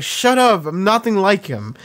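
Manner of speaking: mild hammed-up annoyance, brushing it off; imitating angry retort. Spike snapping back at his crew, mock angry. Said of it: "he gets so angry".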